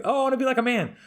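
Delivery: high, airy mock of a tomboyish woman; mocking girly voice. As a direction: squeak it out, mocking women who act like men. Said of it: "I can't stand women that fucking like".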